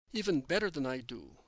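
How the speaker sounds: "better" leaned on, the peak of the line; slight extra weight on "better"; stress on better. A narrator's reading. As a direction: lean into "better" as the point. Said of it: "stressing the word better".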